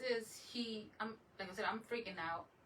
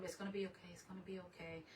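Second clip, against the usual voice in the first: softly reassuring, holding it together; quiet comforting murmur to a pet; retold soothing; 8 dB quieter, faster than usual. Owner reassuring the sick dog, soothing and soft. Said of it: "I'm trying to keep it together".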